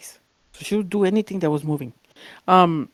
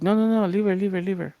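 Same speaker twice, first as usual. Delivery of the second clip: raised-pitch, insistent pleading; urgent protest; 4 semitones higher than usual. Retold or imitated. Sister telling party couple to back off, urgent protest. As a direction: imitate a protective older sister.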